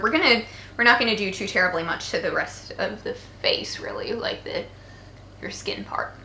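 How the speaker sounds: flat robotic monotone, half-whispered. Pretend. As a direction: sound like a robot posing as human. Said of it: "I sound like a robot".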